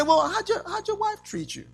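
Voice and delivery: high pleading complaint, rising to a cry; whiny complaining spouse. Pretend. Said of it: "God's not gonna say".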